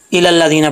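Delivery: "इलल्लादीना" with a single, unheld first l; without shadda. Shown as a demonstration. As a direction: say "इलल्लादीना" as "i-lal-la", first ल undoubled. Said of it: "लेकिन यहाँ पे शद है".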